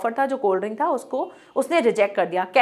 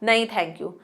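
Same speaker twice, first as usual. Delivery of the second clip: polite refusal; 4 semitones lower, 5 dB quieter, slower than usual. Shown as a demonstration. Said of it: "बस ऐसे बोलते हो ना".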